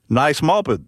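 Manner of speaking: put-on « Nice moped » avec une pointe d'accent britannique; léger accent britannique. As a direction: imiter un chanteur avec un accent britannique à peine esquissé. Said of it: "avec son accent british". (Un chanteur complimente le scooter, léger accent britannique)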